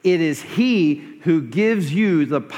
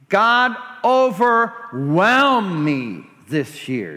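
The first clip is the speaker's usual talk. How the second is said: slow earnest prayer; 2 semitones higher, slower than usual. Shown as a demonstration. Pastor models a slow, earnest prayer for the congregation. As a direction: draw out each word in a slow, earnest plea. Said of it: "Is that your prayer?".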